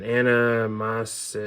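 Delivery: Anna Mas- sounded out slowly, then broken off; hesitant, drawn-out try at saying Anna Mas-; unsure pronunciation. Real, not acted. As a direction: attempt Anna Mas- slowly and give up midway. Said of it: "not sure how to pronounce this correctly".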